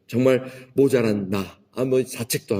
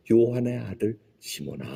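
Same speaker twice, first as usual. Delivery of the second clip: gentle. Retold or imitated. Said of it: "주님께서 아주 부드럽게".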